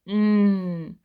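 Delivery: "N" said alone as a held sound; isolated sound. Shown as a demonstration. Teacher isolating the first sound for students.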